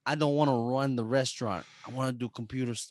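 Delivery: whiny son begging his dad; a lightly voiced pleading son; Greek brother impression. Imitating the movie son telling his dad he won't run the restaurant. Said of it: "that's a good impression".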